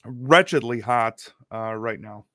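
words between sips of soda; while sipping a drink. Real, not acted. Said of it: "you will hear me drinking my soda".

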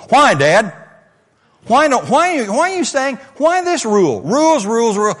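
hammed-up sulky teenager complaining about rules; whiny teenager. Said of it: "in a certain tone of voice".

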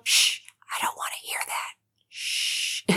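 hushed, teasing shh to the doubters; playful shushing whisper. Pretend. Playfully hushing doubting listeners.

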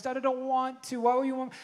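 imitating a whiny, reluctant son; mock grumble; grumbling kid. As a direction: protest like a child refusing a chore. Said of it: "he's just grumbling".

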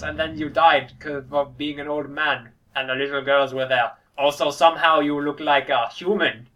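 put-on lightly German-accented old doctor; a hint of a German scientist; Tenenbaum voice. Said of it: "That's my tree bomb voice".

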